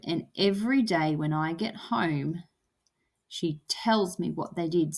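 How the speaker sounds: "every", "home", "tells" and "did" lightly weighted; stress on beat words. Shown as a demonstration. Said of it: "So tells and did, every and home".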